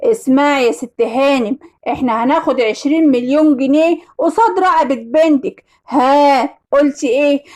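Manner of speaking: lightly voiced ransom caller; kidnapper on phone. Kidnapper calling the mother for ransom, a hint of menace. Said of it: "وواحد قال لي في التليفون".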